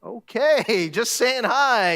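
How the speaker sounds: mock-defensive retreat; taken aback. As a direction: back away from the outburst, stretching the words. Greeter backs off from the rant.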